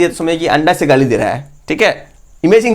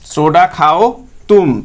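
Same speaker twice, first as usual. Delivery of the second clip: slow drill; much slower than usual. Shown as a demonstration. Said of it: "क्या याद रखना है?".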